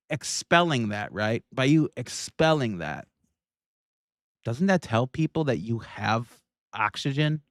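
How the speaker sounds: normal talking voice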